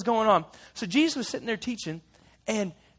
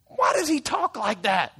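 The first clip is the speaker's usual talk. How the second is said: mild Pharisee grumble; slower than usual. Acted. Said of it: "they said".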